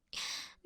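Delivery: an unvoiced little laugh; breathy whispered laugh. Vampire laughs alone with prey.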